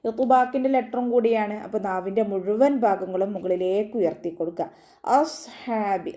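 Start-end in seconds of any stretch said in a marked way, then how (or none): 5.2-6.1 അസ്ഹാബി with a heavy, raised saad; clear saad. Shown as a demonstration. Teacher models അസ്ഹാബി with a heavy saad. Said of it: "സ്വാദിൻ്റെ സൗണ്ടിനെ വ്യക്തമാക്കി".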